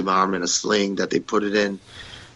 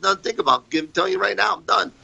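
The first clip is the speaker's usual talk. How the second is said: heated retort; 10 semitones higher, faster than usual. Retold or imitated. Retold heated walkout.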